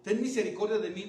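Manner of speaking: loud acted plea; crying out. Blind man begging Jesus for mercy, crying out. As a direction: call out for mercy. Re-enacts the blind man's cry.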